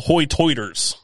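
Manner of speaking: "hoy-toiters" with oy for long i; island brogue pronunciation. Shown as a demonstration. Explaining the islanders' nickname, "hoy-toiters" in their brogue. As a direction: say "hoy-toiters" with rounded oy vowels. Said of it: "'cause that's how they say".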